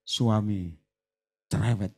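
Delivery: low, soft blunt statement; low blunt aside. Retold or imitated. Pastor bluntly telling the wife about her husband, low and soft. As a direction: drop the voice and say it straight.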